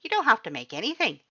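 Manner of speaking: high, loud, eager skeleton voice; loud cheerful Papyrus. A narrator's reading. Papyrus welcomes the human to stay, loud high cheerful voice. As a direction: boom it out like a proud, cheerful skeleton.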